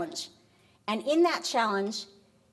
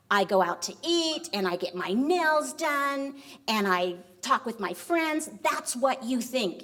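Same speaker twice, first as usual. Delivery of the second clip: higher-pitched, emphatic mock tirade; indignant outburst; 3 semitones higher than usual. Wife turns on husband over his farewell, indignant. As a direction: retell an indignant rant, hitting each grievance.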